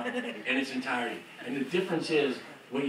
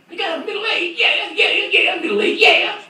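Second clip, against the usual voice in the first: much higher and louder, bouncing yeahs; high excited rock star; 10 dB louder than usual. Retold or imitated. Rock star demanding a middle eight, high excited. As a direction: egg him on with manic joy.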